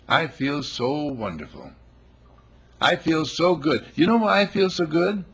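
high, loud, overjoyed sales talk; gushing mock cheer. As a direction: gush about feeling wonderful.

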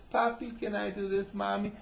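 put-on high little-kid voice. Kid asking parents for permission, high child voice. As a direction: ask it high like a small child. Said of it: "When a kid says".

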